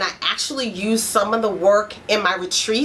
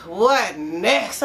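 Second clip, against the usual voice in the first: weary complaint; 3 semitones lower than usual. Pretend. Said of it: "You're actually saying".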